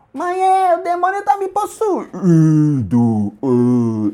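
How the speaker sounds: high, whining mock complaint; whiny kid voice. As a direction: play a whiny scared gamer. Mocking a gamer's complaint.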